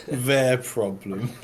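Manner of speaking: slow laughing words. Real, not acted. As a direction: laugh through it. Laughs mid line.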